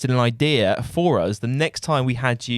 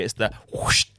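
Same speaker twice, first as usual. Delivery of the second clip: whoosh sound effect; 6 semitones lower than usual. Retold or imitated. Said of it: "the sound effects he always does".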